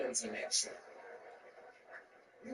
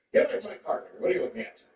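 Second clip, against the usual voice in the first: louder, panicky shooing; hammed-up clutch-the-cart yell; mock shopper yell; 4 semitones higher, 8 dB louder, faster than usual. Mock shopper yelling at him to get away.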